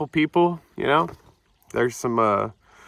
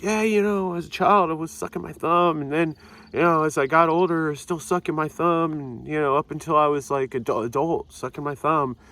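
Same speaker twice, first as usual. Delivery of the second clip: pitched higher, earnest mock confession voice; sharing at the AA meeting, mocked in a higher voice; mocking the speaker girl; 4 semitones higher than usual. A higher, mocking imitation of the girl's confession. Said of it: "and she's like".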